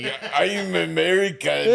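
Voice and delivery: slow imitation of an un-American accent. Teasing a friend's patriot line, in an un-American accent. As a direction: draw it out in a foreign-sounding accent. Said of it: "a very un-American accent".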